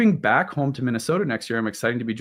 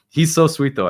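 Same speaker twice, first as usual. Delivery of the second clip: laughing; 6 semitones higher, 6 dB louder than usual. Real, not acted. Laughing about the dog.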